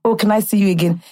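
thick Nigerian accent on a retold line; deep Nigerian accent. Quoting words said after dinner, deep Nigerian accent. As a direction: put on your deepest Nigerian accent. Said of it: "In my most deep Nigerian accent".

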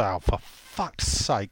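soft, slow, low muttered swearing; muttered curse. Retold or imitated. Podcaster reads out what the listener would say, muttered curse. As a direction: grumble it slowly, keeping it down. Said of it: "under my breath".

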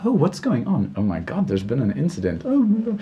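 high-pitched start, murmuring crowd reaction; mock-worried evening crowd; alarmed onlookers. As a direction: play startled bystanders, pitch jumping on the exclamations. Voicing the alarmed crowd outside.

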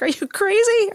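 high, disbelieving outcry; incredulous cry. Retold or imitated. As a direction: shout it at a fool in a horror film. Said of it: "I was like".

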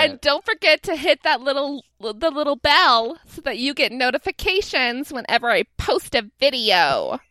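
lightly hammed-up influencer plug; mock a vlogger's sign-off, drawing out the end; put-on YouTuber patter; YouTuber parody. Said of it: "like, a YouTuber".

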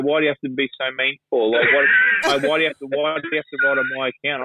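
mock whiny complaining fan, a touch teary. Sulky fan whining about his account being abused. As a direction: whinge it like a sulky footy fan. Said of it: "all these fucking whiny Port supporters".

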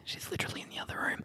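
hushed whisper. Real, not acted. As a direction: whisper it so she won't hear. Secret from Emily in next room.

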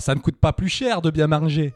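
put-on pub imitée avec l'accent stéphanois, plus fort; Stéphanois lançant un slogan, voix appuyée; accent stéphanois. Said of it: "t'as l'accent stéphanois, euh, comme Mémé". (accent stéphanois)

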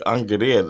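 Angered said the Swedish way, ON-ger-ed; Swedish pronunciation. Retold or imitated. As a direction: say Angered as Swedish ahn-geh-red. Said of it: "It's called, in English".

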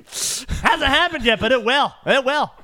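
ominous prophecy voice. Retold or imitated. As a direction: warn darkly that it's coming. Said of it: "putting things in their brains".

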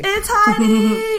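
high, drawn-out excited squeal. Real, not acted. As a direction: squeal it with delight. Excited greeting of guest.

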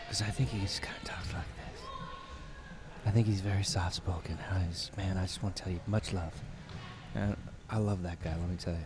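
hushed, breathy soft-spoken singer; soft-spoken whisper. Retold or imitated. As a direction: whisper it like a gentle frontman. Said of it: "Do the Future Islands guy".

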